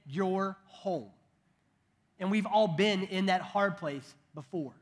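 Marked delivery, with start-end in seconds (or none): 0.1-1.1 tender father. Acted. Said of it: "He just simply said".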